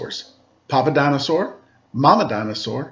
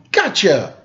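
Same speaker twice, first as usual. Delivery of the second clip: dinosaur yelling; 6 semitones higher than usual. A narrator's reading. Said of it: "a dinosaur yelling".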